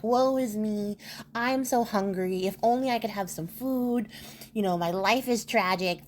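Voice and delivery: lightly hammed-up old beggar wailing "woe is me"; mock Shakespearean beggar. Disguised emperor begging in the forest, mildly hammed-up lament. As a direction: ham up a theatrical lament, only a little. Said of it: "like, Shakespearean accent, putting on the affectation".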